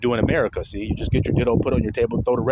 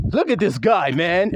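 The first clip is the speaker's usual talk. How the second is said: lightly imitated jeer, higher pitched; mocking classmates; 3 semitones higher than usual. Classmates mocking his Italian pronunciation, imitated jeering. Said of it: "They were all like".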